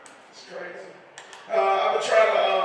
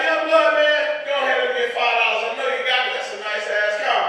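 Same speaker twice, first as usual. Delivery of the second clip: louder, higher hustler pitch; panhandler voice; 3 semitones higher, 7 dB louder than usual. Retold or imitated. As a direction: sweet-talk the driver for cash. Voicing the homeless man.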